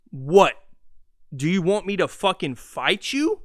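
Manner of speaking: sudden loud What, then a rising threat; a coach snapping back at his player; retold angry outburst. Coach challenging Jimmy Butler to fight, loud mock anger. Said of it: "made him say".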